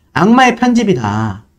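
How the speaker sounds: plain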